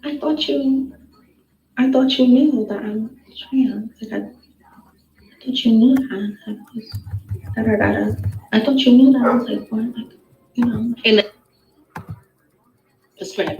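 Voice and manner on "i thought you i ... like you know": put-on baby girl voice. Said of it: "This little baby girl voice".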